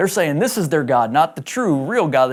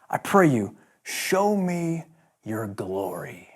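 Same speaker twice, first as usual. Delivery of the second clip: reverent prayer; 5 semitones lower, 6 dB quieter, slower than usual. Acted. Moses' reverent prayer to God.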